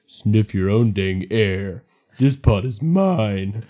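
slow country drawl; country accent. Acted. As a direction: drag it out, country style. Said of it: "You gotta go country".

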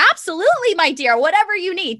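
a hint of a high, eager young bellboy; mild imitation of a doting hotel boy; lightly voiced eager bellboy. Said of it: "this cute little boy was like".

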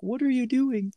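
high, puzzled wife voice; wife's baffled question. Retold or imitated. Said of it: "She's like".

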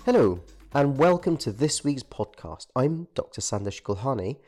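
hoarse, croaky from the flu. Real, not acted. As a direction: talk through a croaky throat. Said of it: "apologies for my croaky voice".

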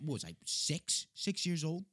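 high, slow disbelieving question; incredulous. Real, not acted. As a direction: ask it in sheer disbelief. Incredulous son, pitch soaring.

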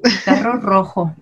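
El carro rojo with both rr trilled; trilled R demo. Shown as a demonstration. Speech therapist modelling the trilled r in carro rojo. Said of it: "a la doble R".

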